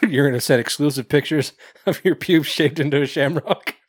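giggling through the words; words breaking into laughter; laughing. Real, not acted.

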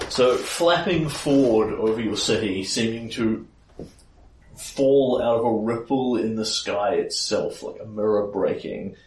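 storyteller unveiling a monster; game master scene setting. Acted. Game master describes the monster's arrival.

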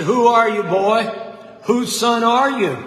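put-on preacher challenging a boy, booming. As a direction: call him out before the whole crowd. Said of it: "In a booming voice that everyone could hear".

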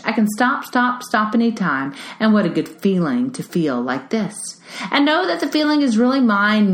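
reads the lyrics aloud with gentle rhythm; reading song lyrics. Acted. Reading Mister Rogers' lyrics aloud to parents, gently. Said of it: "I'm gonna read the lyrics to you".

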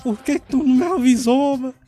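angry. Acted. Batman yells at Alfred.

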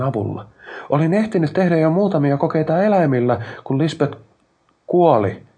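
high, loud, impassioned declaration. A narrator's reading. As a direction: call it out over whirring machinery. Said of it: "Aikpod korotti ääntään".

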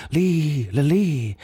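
high, trilling little call; shrill trill. A narrator's reading. Tiny creature answering from under a leaf, shrilling. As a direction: trill it out, half mocking.

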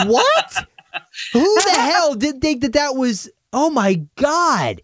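lightly voiced confused actor; mild mock disbelief. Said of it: "the actor comes out and says".

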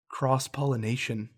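matter-of-fact, imitating an unimpressed friend; straight-faced. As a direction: deliver it dry, pausing before the insult. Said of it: "just straight-faced looks at me and goes".

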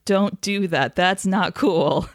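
firm, slow disapproval; stern. Real, not acted. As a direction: lay down the law. Repeated warning to everyone.

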